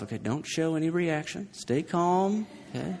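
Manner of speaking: hushed inner voice, held soft and calm; quietly to myself. Retold or imitated. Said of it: "quietly to myself".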